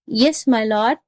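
meek answer with a rising end; meek jackal. Acted. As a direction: humour the angry master obediently. Jackal meekly answers the raging tiger.

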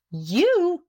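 high, loud incredulous cry; astonished exclamation. A narrator's reading. Wife hearing her husband confess, astonished exclamation. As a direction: pitch leaping up in disbelief. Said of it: "exclaimed his wife".

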